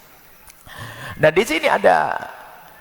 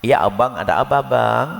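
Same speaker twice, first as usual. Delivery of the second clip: lower, gentle loving reply; sweet couple talk; 5 semitones lower, slower than usual. Retold or imitated. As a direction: answer your husband tenderly, lower in pitch. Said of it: "Pakai kalimat lembut".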